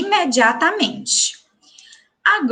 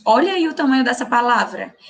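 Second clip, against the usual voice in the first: ordinary talk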